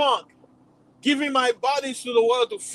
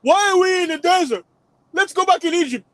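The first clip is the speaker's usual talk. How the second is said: whining ancestors; 6 semitones higher, 4 dB louder, faster than usual. Retold or imitated. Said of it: "Just like the ancestors say".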